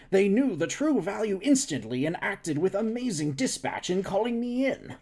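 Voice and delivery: lightly voiced eager scientist. Scientist character voiced, higher.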